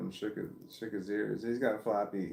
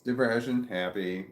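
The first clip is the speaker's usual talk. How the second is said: contrast demo; 7 dB louder than usual. Shown as a demonstration. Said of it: "It makes all the difference".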